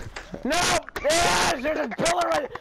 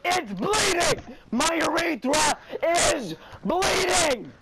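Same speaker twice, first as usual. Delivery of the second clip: mock yell.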